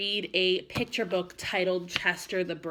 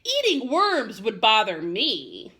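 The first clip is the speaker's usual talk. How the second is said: grossed out; 6 dB louder than usual. Acted. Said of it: "his entire body shuddered".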